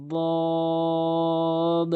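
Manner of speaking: দদ said heavy from the tongue's side edge against the gums; Arabic dad demo. Shown as a demonstration. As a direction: model the letter দদ with a full emphatic sound. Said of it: "এভাবে উচ্চারণ করবেন".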